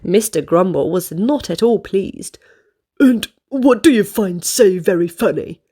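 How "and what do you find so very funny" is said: a touch of cross grumbling; lightly voiced grumpy customer. Mister Grumble crossly questions the giggling waitress. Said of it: "he asked crossly".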